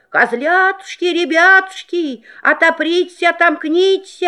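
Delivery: wolf faking a thin high voice; wolf in disguise. Acted. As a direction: sing it high, pretending to be mother. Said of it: "запел тоненьким голоском".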